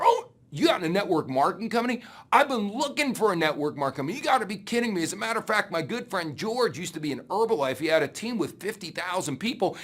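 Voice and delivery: imitating an overeager coworker, lightly voiced; eager excitement. Coworker excitedly tells recruit about friend George, eager voice.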